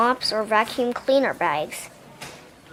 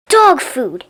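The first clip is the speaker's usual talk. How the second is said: angry witch; 3 semitones higher, 7 dB louder than usual. A narrator's reading.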